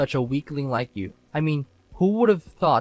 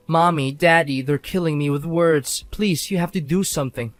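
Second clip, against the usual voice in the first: hammed-up plea, lightly raised; mock wailing; 3 semitones higher than usual. Husband mimicking his wife crying to parents, mock wail. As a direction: mockingly play the helpless crybaby. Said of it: "sobbing and wailing".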